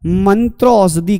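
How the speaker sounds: मंत्र औषधि said with मंत्र as one utterance; demonstrated pronunciation. Shown as a demonstration. Teacher showing where the word splits, demonstrated pronunciation of मंत्र औषधि. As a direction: sound out मंत्र, then औषधि. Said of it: "कैसे बोलेंगे".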